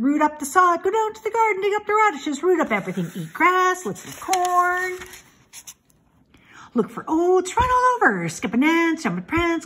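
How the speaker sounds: high, loud gleeful goose voice; excited goose. A narrator's reading. Goose urges the pig to run free, high and excited. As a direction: cheer him on like a giddy goose.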